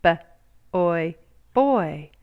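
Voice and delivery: slow sounding out letter by letter; sounding out slowly. A narrator's reading. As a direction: stretch each sound like a beginner reader. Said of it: "Sounding out letters and words".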